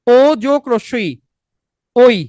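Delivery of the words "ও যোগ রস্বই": slow spelled-out demo. Shown as a demonstration. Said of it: "তখন কি হয় দেখেন".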